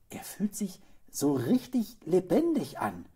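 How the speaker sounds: high, loud exclamation; excited boy's cry; boy calling out. A narrator's reading. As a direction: call it out with delight, voice high. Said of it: "rief der Junge".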